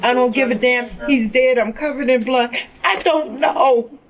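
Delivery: voicing hysterical son. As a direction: retell a broken son's goodbye. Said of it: "He was hysterical".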